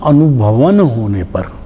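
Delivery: अनुभवन said slowly as one word, then होने पर; joined as one word. Shown as a demonstration. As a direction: run अनुभवन together, no break before its final न. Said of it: "शब्द था". (अनुभवन को धीरे, एक ही शब्द में जोड़कर)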